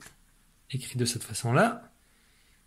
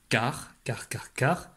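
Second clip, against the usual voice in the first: whispered; slower than usual. Real, not acted. Teacher whispering while correcting a dictation. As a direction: whisper the word to yourself.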